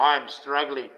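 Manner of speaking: lightly mock the rich complainer; mock whinge. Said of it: "You wouldn't hear me whinging about".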